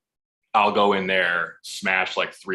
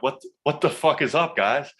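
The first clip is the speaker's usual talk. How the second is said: a higher, brash barge-in greeting; 6 semitones higher than usual. Retold or imitated. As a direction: burst in acting like you own the room. Barges into meeting.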